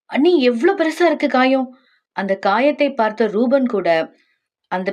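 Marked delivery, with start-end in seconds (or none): 0.1-1.7 higher-pitched worried exclamation; alarmed. Acted. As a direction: fret aloud over the injury. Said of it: "ஏன் இவ்ளோ பதட்டம்". (பதட்டத்துடன் கவலையாக)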